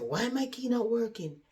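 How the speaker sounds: high-pitched baffled question; mock bewilderment, voice lifted; puzzled. Tired woman trying her key at the door, puzzled.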